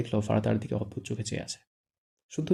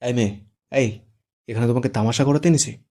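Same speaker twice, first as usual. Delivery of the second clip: louder harsh scolding; furious groom scolding, louder; angry scolding; 5 dB louder than usual. Acted. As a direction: bark orders at the bride. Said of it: "রেগে ধমকে বলে".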